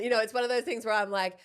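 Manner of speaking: ordinary talk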